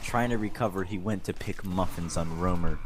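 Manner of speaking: mock-serious fanfic narration; hammed-up storyteller; dramatic reading. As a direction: read it straight-faced like a novel. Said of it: "Dramatic reading".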